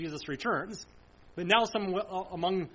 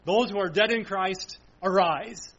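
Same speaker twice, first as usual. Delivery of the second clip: cry of command; 5 dB louder than usual. Pretend. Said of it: "something like".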